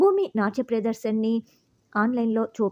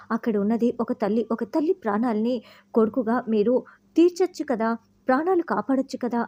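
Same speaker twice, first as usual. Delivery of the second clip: pleading. Retold or imitated. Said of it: "భూమి వేడుకుంటూ ఉంటే".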